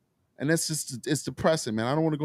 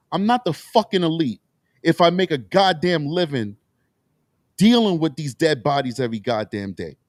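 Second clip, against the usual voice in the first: heated and a bit louder, words punched with anger; real upset; 3 dB louder than usual. Real, not acted. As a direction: let the frustration push each curse out. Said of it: "I'm getting upset".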